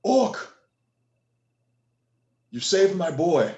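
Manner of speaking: voiced high and loud, gruff gratitude; an awed father thanking the orc; grateful father. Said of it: "And he says".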